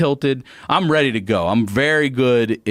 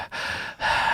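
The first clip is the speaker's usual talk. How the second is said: heavy, winded exhale in imitation; mimed out-of-breath huff; imitated heavy breathing; 8 dB quieter than usual. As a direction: puff out a breath like someone winded. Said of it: "He's breathing heavy and shit".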